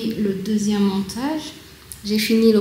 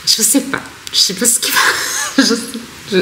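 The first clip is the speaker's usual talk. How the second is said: nervous laugh; 3 semitones higher, faster than usual. Real, not acted. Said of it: "c'est un rire nerveux".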